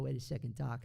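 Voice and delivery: a hint of the young time-travel hero; lightly voiced movie teenager calling to his scientist friend; Michael J. Fox. Shown as a demonstration. Voice double giving a quick sample, lightly voiced film hero. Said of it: "So, so Michael J. Fox".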